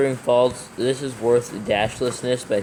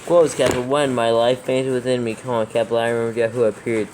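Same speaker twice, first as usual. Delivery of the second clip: dictating. Acted. Dictating verse with punctuation.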